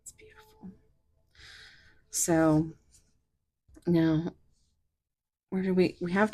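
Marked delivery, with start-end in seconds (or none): 0.0-0.7 soft breathy whisper of awe. Real, not acted. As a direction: breathe it out in wonder. Whispered awe over the card.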